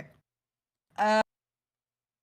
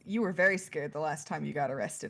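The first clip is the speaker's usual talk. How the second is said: gentle chiding; 5 semitones lower, 5 dB quieter, faster than usual. Acted. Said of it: "Valente gives her a look and says".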